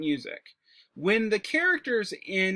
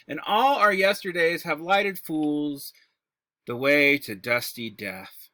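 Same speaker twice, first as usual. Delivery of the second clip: dramatic recitation. Shown as a demonstration. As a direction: recite it like a weary tragic king. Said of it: "let me give you a example of a very short soliloquy".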